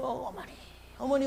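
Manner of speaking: calling out to mother in acted grief; retold wailing. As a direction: imitate a restrained sobbing cry. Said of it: "한참을 통곡을 하고 막 울고".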